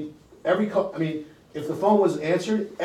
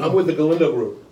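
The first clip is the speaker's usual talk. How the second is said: sales pitch; 6 dB louder than usual. Shown as a demonstration. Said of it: "the reason I pause there".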